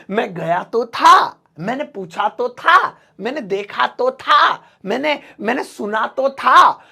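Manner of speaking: तो था pressed with force at each line end; तो था बोलो ज़ोर देकर; emphatic तो था. Shown as a demonstration. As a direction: lean hard on तो था, slowed a little. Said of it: "जोर देकर, फोर्स देकर बोला जा रहा है".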